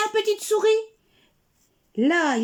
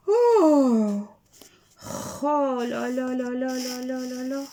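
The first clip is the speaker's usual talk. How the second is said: lamentation; 4 semitones lower than usual. Acted. Marmotte se lamente.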